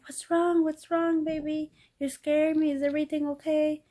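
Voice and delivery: voicing a husband scared by her sudden tears; worried husband. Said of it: "And then Chris like".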